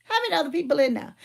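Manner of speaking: quick, lightly imitated dad cutting in; brusque dad. Dad cutting off his protesting daughter, mildly brusque and quick. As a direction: rattle it off like a dad who won't hear excuses. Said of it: "See, that's how he talk".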